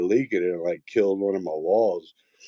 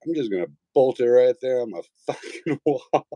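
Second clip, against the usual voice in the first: mock defiant decision; 3 semitones higher than usual. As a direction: announce it like a bold plan. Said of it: "And I was like".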